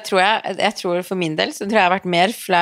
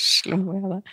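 laughing quote; 3 semitones higher, 5 dB quieter, slower than usual. Retold or imitated. Co-host laughs, echoing the date's question. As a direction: repeat the line through laughter. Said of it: "co-host repeats his line laughing".

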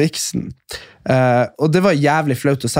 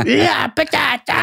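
mock drunk yell; 10 semitones higher, slower than usual. Drunk woman yelling.

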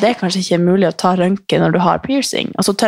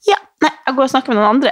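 quick, higher brush-off; imitating awkward people; 6 semitones higher, faster than usual. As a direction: rattle it off like someone escaping you. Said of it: "Som folk blir sånn". (raskt, lyst avvisende tonefall)

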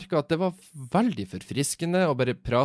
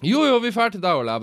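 high, louder, firmer insistence; pushy friends; 10 semitones higher, 5 dB louder than usual. Retold or imitated. Friends loudly overruling Ole's no-alcohol excuse, high and firm. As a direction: settle it, loud and cheerful.

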